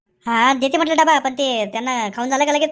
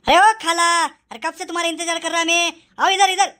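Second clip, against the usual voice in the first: mock-impatient raised call. Calling his supposed aunt over, raised impatient call. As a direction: hail someone across the street.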